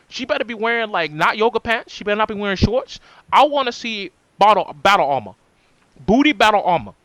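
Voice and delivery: a light patronizing lecture tone; condescending voice. Pretend. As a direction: talk down to them like a know-it-all. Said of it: "the most patronizing, condescending, like, voice I can".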